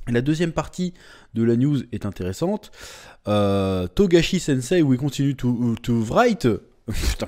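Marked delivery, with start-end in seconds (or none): 3.9-6.5 English with heavy French accent. Shown as a demonstration. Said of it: "comment je parle mal anglais". (anglais à l'accent français)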